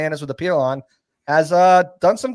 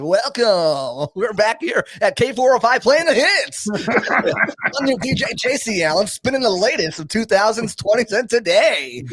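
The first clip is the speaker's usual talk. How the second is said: lightly put-on radio DJ; chirpy hits-station DJ patter; 4 semitones higher than usual. Shown as a demonstration. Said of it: "It's like my radio voice".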